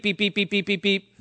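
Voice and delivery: soft imitated beeping, quick and even; register beeps. Pastor imitates the failing register for the congregation, soft beeps. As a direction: mimic a cash register erroring out, softly. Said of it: "all you hear is beep".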